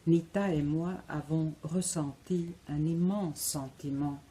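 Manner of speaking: measured reading with long pauses between phrases; literary reading. Acted. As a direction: read the memory aloud, phrase by phrase. Reads her mother's story extract aloud.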